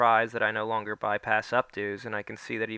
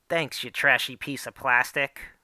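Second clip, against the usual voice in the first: lightly voiced sassy influencer, slow; a hint of the Natch Queen's drawl, slow; 3 semitones higher, 3 dB louder than usual. Boy insulting Mom in the Natch Queen's voice, lightly done. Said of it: "I say in the Natch Queen's voice".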